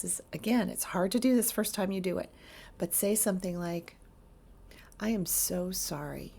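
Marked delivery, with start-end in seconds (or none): 5.0-6.3 flat, even apology with no feeling; flatlined. Shown as a demonstration. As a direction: say it dead level, nothing behind it. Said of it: "you say it kind of flatlined".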